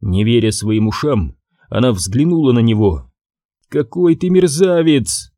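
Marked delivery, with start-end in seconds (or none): 3.7-5.3 disgust. A narrator's reading. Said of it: "с отвращением выговорила она".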